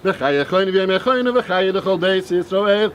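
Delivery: rapid murmured prayer, partly half-sung; quick prayer chant in Aramaic; fast Kaddish recital. Acted. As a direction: rattle through the Kaddish like daily prayer.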